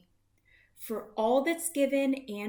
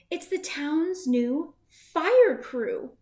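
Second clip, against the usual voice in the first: proud announcement; 5 semitones higher, 6 dB louder, slower than usual. A narrator's reading. Proud finale line of rhyme.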